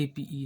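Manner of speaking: "एपीई" said as separate letter names A, P, E; spelled letter names. Shown as a demonstration. Teacher warns students off the spelling, spelled out "एपीई". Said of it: "spelling पे मत जाना".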